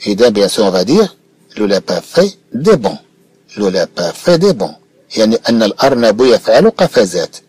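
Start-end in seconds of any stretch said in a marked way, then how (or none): 1.6-4.7 slow model reading. Shown as a demonstration. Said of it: "teacher models slow reading".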